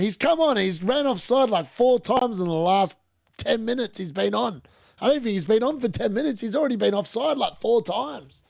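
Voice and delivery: can't believe it keeps happening; fed-up outburst; exasperated rant. Real, not acted. Striker keeps going offside.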